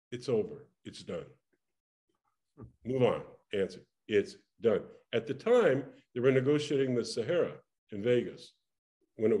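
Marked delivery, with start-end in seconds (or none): 0.1-4.8 quiet and low; a soft, low, final murmur; resigned murmur. Retold or imitated. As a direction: let it go, defeated. Resigned inner decision.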